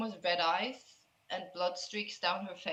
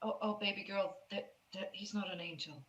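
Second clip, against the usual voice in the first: soft, hesitant and lowered; gentle consoling; 7 dB quieter than usual. Acted. Aiden corrects his crying baby girl, gentle and quiet. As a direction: let her down softly.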